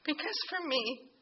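real catch of tears in the throat; choked up. Real, not acted. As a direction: fight back tears on these words. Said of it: "Sorry to get choked up".

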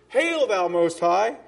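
slow, solemn, formal address to God. Shown as a demonstration. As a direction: intone it like a stiff formal title. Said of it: "I'm not gonna say".

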